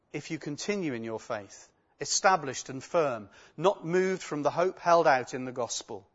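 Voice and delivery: measured, solemn Bible reading; steady lectern reading voice; scripture reading. Acted. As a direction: read the passage to the congregation. Reads scripture aloud.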